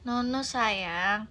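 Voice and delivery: put-on soft, quiet coaxing of a restless toddler; gentle coaxing mother. Mother softly coaxing toddler to sit in public, quiet and gentle. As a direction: soothe the child into sitting.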